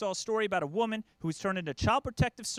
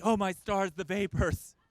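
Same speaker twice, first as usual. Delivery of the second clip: Southern belle; slower than usual. Retold or imitated. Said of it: "Like I'm Scarlett O'Hara".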